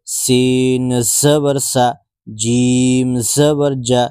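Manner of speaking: slow, drawn-out letter-by-letter spelling; teacher spelling Arabic letters slowly; slow spelling drill. Shown as a demonstration. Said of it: "বারবার বানান করে পড়".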